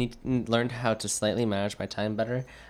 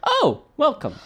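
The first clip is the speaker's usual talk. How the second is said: mock sweet greeting; 6 dB louder, slower than usual. Guard greets with put-on sweetness.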